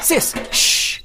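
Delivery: whispered shh to his sister; breathy whispered hush; hushed warning. Acted. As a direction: hush her urgently in a whisper. Hushing sister, hearing intruder.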